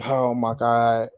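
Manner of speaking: slow, drawn-out oh my God; slow drawn-out dismay; slow mock dismay. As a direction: let it sink in slowly, dismayed. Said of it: "I was just like".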